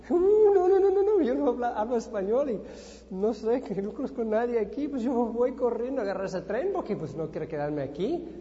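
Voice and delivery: high, loud flustered panic; retold panic at being left behind; panicked inner voice. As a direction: blurt it out in a rush of alarm. Panicked when the train leaves.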